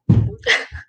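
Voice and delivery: high mock child sob; short put-on toddler wail; imitated toddler cry. Mimics waking daughter crying.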